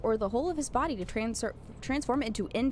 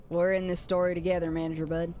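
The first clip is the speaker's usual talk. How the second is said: low Texan country voice; country accent; 4 semitones lower than usual. Acted. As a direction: say it like a friendly country character. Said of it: "gonna give him a country accent".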